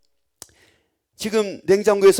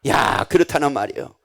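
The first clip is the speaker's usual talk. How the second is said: ordinary talk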